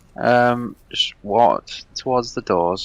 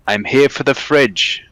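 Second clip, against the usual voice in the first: slow, higher mock Polish voice; very Polish accent; 4 semitones higher, 4 dB louder, slower than usual. Polish stranger on the lawn come for a fridge, imitated Polish accent. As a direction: announce it slowly in a thick Polish accent. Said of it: "Very Polish".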